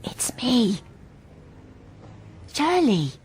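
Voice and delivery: breathy secret whisper on the phone. Acted. Shirley calling the shop, whispering. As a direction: whisper so no one overhears. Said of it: "What are you whispering for?".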